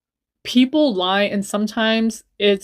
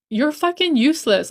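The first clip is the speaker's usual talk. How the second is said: angry yell; 6 semitones higher than usual. Retold or imitated. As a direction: spit it at her in rage. Retold insult, second telling.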